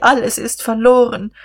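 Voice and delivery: high despairing whimper. A narrator's reading. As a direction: lament it high, all hope gone. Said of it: "wimmerte sie". (verzweifelt und hoch gewimmert)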